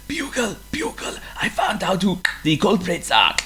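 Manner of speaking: unvoiced urgent whisper. A narrator's reading. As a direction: whisper the secret. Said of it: "whispered to Bugle".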